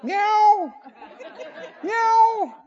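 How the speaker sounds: high, sweet begging meow; cat meow. Pretend. Preacher voicing the stray cat asking again, high meow. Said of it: "How about tomorrow".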